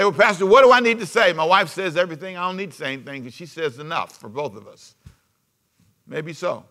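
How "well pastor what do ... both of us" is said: higher, louder, fast whiny husband voice, winding down at the end; mock husband's excuse. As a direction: play the excusing husband, lightly. Mocking a silent husband's excuse.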